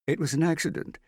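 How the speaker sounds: high, loud insisting; insistent cry. Acted. Hester insisting to everyone it was an accident, high and loud. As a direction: cry it out to protect him.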